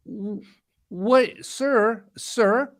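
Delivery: halting, high-pitched protest to a salesman; taken-aback retold protest. Retelling his protest to the knife seller, taken aback. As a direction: stammer it high, stopping on each "sir".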